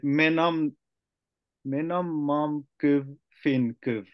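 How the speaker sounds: slow careful read of menam mam kyv fin kyv; reading Komi. Shown as a demonstration. Learner reading the Komi translation aloud slowly. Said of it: "it translated".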